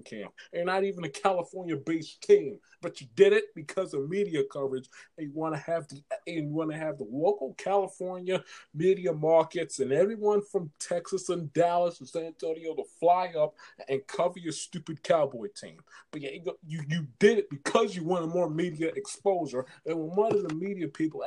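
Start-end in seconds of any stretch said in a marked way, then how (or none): none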